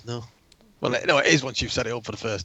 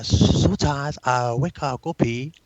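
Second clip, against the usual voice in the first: put-on Japanese accent; 2 semitones higher, 6 dB louder than usual. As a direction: read it in a hammy Japanese accent. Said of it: "in your best Japanese accent".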